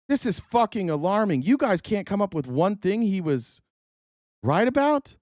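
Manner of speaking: high, incredulous, ending on a steep questioning rise; baffled plea to the audience; alarmed exasperation. Real, not acted. Alarmed at listeners' lack of answers.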